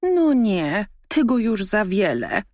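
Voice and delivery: outraged at the cheeky raccoon; barking dog. A narrator's reading. Dog barks indignantly at raccoon. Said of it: "zaszczekał pies".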